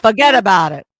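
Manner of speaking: mock New Yorker brushing it off; playful New York accent. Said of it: "You're from New York".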